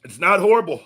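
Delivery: laughing through the heat; forced laugh at the burn. Real, not acted. Tasting very hot sauce.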